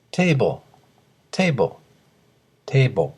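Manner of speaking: テーブル said as English "table", two syllables; English pronunciation model. Shown as a demonstration. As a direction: clear teacher's model of テーブル as native English. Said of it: "よく聞いてください".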